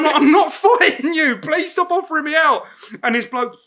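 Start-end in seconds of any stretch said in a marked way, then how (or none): 0.2-2.6 high, loud retold protest; exasperated refusal. Tom refusing the drunk's offer, exasperated mock shout. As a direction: plead loudly through a laugh.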